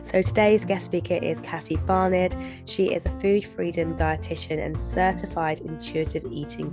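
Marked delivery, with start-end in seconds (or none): 0.0-2.9 bunged up, blocked nose voice; talking through a cold; stuffy nose. Real, not acted. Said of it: "excuse my really bunged up sounding voice".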